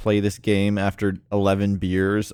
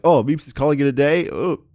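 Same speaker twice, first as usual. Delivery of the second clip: mock viewer voice; 6 semitones higher, 7 dB louder than usual. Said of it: "they're like".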